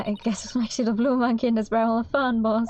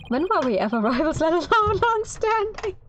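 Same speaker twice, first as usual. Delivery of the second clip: incredulous; 8 semitones higher than usual. Acted. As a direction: stretch it out in disbelief. Defense incredulous.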